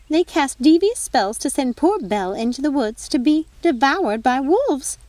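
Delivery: a self-righteous prosecutor listing crimes; prosecuting fairy godmother. Acted. Godmother reads charges like prosecutor.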